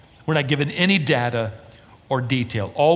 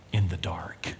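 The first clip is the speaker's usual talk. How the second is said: hushed; 7 semitones lower, 8 dB quieter than usual. Real, not acted. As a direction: drop to a near whisper. Closing point said hushed.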